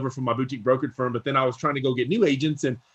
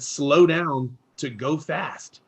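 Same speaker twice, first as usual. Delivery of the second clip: quoting the mentor; much slower than usual. Retold or imitated. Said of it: "He said".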